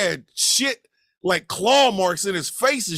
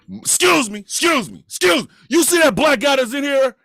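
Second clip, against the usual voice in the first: urgent asking around; 4 semitones higher than usual. Retold or imitated. Acted search, stopping people in crowd.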